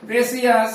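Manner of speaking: প্ৰেচিয়াছ with an extra "ee-a" in the middle; three-syllable mispronunciation. Shown as a demonstration. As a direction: say প্ৰেচিয়াছ as pre-si-as. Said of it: "প্ৰেচিয়াছ নহয়".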